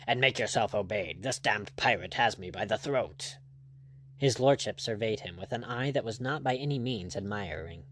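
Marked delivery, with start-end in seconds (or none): none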